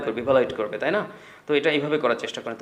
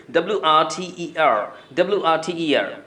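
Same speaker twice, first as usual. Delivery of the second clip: spelling out; 2 semitones higher, slower than usual. Shown as a demonstration. Teacher spells the word out.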